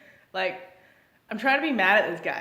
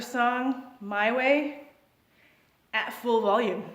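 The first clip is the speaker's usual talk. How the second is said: mock party guy; 5 semitones higher, slower than usual. Partying guy voiced by narrator.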